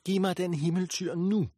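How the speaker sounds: high, loud furious order; angry demand. A narrator's reading. Ishtar demanding the bull from Anu, high and loud with rage. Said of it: "Ishtars øjne skød lyn".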